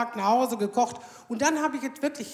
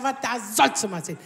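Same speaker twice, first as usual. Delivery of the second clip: mocking echo; 4 dB louder than usual. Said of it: "Ich sag".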